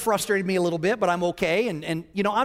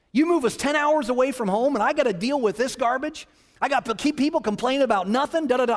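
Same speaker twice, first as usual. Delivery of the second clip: pity-party rant; 6 semitones higher than usual. Retold or imitated. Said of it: "I'm having my little pity party".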